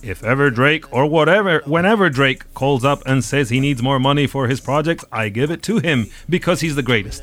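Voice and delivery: put-on light American accent on the quote; a hint of an American accent. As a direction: read the label boss's words in a mock American accent. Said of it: "Are you putting on an American accent?".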